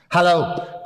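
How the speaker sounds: hello sent far off from the speaker; thrown voice. Shown as a demonstration. Ventriloquist showing kids a thrown voice, distant. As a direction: throw the voice across the room. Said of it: "I'd better do that for you today".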